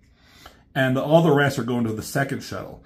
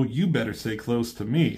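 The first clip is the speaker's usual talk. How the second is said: R C's comeback; 2 semitones lower, 3 dB quieter than usual. Retold or imitated. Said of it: "She says".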